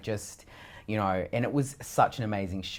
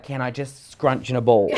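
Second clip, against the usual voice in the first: laughing quote; 3 semitones higher, 7 dB louder than usual. Retold or imitated. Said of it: "I was like".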